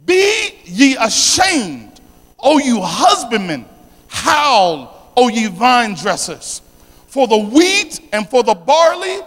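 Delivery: slow, drawn-out declamation of scripture; scripture reading. Real, not acted. Preacher reading Joel's lament to the congregation, slow and declamatory. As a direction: stretch the key words of each verse.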